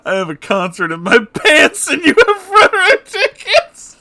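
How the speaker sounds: high, loud, tearful laughing voice; laugh-crying. Real, not acted. Reacting to the fan fiction, crying with laughter. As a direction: squeak it out through tears of laughter. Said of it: "I'm fucking crying".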